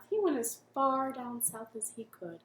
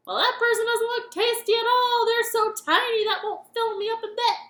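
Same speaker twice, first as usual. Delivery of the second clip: loud, high singsong king; monster king; 11 semitones higher, 12 dB louder than usual. Acted. Monster king unimpressed by the tiny baker. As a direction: sing it out, unimpressed.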